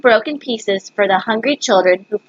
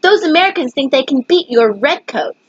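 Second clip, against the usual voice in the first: courtiers' report; 3 semitones higher than usual. Acted. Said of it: "They're saying".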